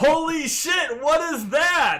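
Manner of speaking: very high, slow, loud, drawn-out excited outburst. Testing a microphone after being asked to scream: loud excited exclamation. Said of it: "Scream as loud as you can".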